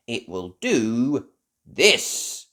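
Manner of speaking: put-on slow, loud elf boy. Ben showing off.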